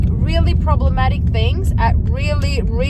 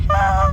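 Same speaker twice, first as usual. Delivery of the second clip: short, breathy mock "ha"; imitated laugh; 4 semitones lower than usual. Showing how she sat there laughing, mock laugh. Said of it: "she was just sitting there laughing".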